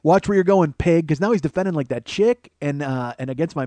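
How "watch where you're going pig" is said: louder, higher, imitating an angry father; mock angry warning with raised pitch and volume; dad's angry voice. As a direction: snap it like dad did, raised voice. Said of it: "hear it in his voice".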